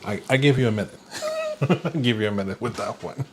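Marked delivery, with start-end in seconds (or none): 1.6-3.3 quick words through a laugh. Real, not acted. Teasing the listeners with a laughing pause. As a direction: chuckle through it, amused. Teacher laughs at own question.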